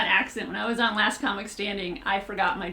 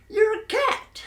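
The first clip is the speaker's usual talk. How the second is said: Norm Macdonald; 10 semitones higher, slower than usual. Retold or imitated. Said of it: "Norm Macdonald going".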